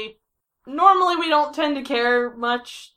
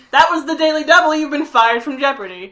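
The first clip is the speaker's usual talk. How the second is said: game show host; 4 semitones higher, 6 dB louder, faster than usual. Pretend. Game show host firing contestant.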